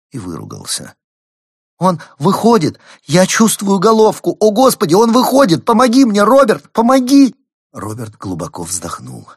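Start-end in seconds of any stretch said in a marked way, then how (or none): 1.8-7.3 panicked scream. Acted. Wife in labour screams for help.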